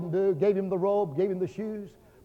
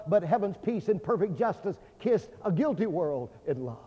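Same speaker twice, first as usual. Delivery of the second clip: poem recitation; 2 semitones higher than usual. Real, not acted.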